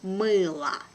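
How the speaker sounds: "Мыло" with the final o reduced to a, "Мыла"; "Мыло" with the weak o sounding like a. Shown as a demonstration. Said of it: "I pronounce it like A".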